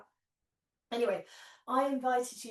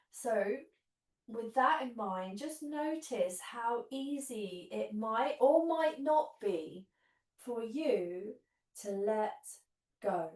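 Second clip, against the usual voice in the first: guided meditation; slower than usual. Acted. Guided relaxation, long pauses.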